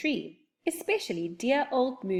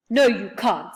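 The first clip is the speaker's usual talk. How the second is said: put-on louder, curt no from a cross old man; rude refusal; 7 dB louder than usual. Old man refuses to let children pass, rude loud no. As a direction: shut them down rudely. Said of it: "said Mister What's-its-name rudely".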